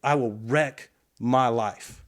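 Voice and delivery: slow, deliberate, mildly tearful repeat; tearful insistence. Retold or imitated. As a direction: press each word slowly, a touch of tears. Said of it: "and his tears started coming".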